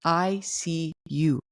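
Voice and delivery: slow, gentle I see you; slow validating. Shown as a demonstration. To a partner, slow gentle validation. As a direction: acknowledge them slowly and gently. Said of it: "at least you're saying".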